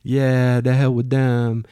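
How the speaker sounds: lightly voiced island cabbie. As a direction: cheer a friend on like an amused cabbie. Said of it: "we were laughing the whole way. He says".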